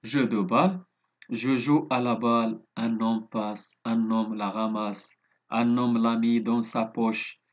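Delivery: slow, measured poem reading with even pitch; poem recitation. Shown as a demonstration. Teacher reading a poem to pupils, slow and measured. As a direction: recite it line by line, unhurried. Reads another poem aloud.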